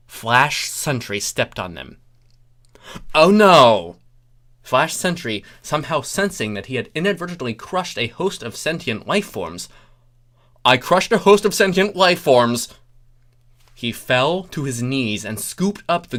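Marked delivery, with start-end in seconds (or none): 3.1-4.0 loud startled oh no; sudden loud dismay; dismayed cry. Acted. Flash Sentry reacts to crushing. 10.6-12.7 high, loud cry of horror; loud stricken exclamation; anguished outburst. Acted.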